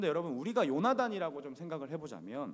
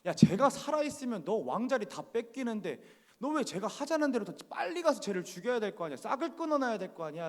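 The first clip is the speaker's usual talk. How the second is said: angry king; 5 semitones higher than usual. Retold or imitated. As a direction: scold your son like an enraged king, pushing each question hard. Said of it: "그래서 이렇게 막 화를 내요".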